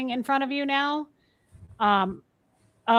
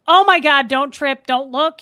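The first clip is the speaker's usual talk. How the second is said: loud, raised-pitch alarm, easing slightly; acted-out boyfriend alarm; urgent warning; 5 semitones higher, 9 dB louder than usual. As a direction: blurt out a retold panicked warning. Retold urgent warning to partner.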